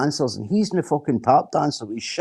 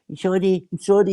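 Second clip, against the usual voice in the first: higher, small-boy mock apology; like a wee boy; 6 semitones higher than usual. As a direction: whimper it like a scolded wee boy. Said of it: "He's like a wee boy".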